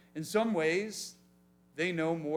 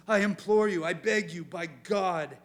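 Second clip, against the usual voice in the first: demon begging; 3 dB louder than usual. Acted. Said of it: "the demon begs".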